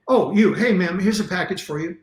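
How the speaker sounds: offhand, unaffected delivery guy; totally disinterested. Retold or imitated. Delivery guy handing Kim a package, bored and offhand. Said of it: "Totally disinterested and unaffected".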